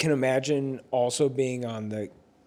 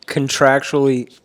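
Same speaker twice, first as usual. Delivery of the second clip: air-quoted contractually; 9 dB louder than usual. Real, not acted. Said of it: "in quotes".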